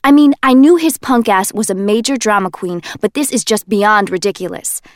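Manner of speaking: put-on loud, defensive young man; Kenji, defensive. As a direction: plead your innocence, a bit too loud. Kenji ranting about the boyfriend.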